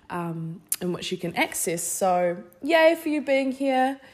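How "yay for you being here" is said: excited. Real, not acted. Excited cheer to listeners.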